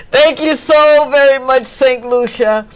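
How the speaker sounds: high, loud, emotional gratitude; tearful thanks. Real, not acted. Host thanking Saint Lucia after being made to cry, tearful. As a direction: gush thanks through real tears. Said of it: "making me cry".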